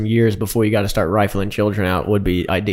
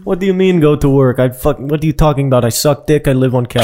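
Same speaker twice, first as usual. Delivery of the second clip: mock Russian accent; 3 semitones higher than usual. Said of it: "how could you not have that accent".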